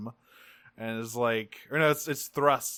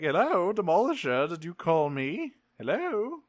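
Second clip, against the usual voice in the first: calling out; 5 semitones higher than usual. Retold or imitated. Acted Thrust calling out.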